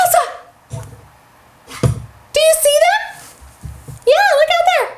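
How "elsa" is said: delighted discovery; surprised gasp. Real, not acted. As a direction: gasp then call the name high. Gasps on seeing doll.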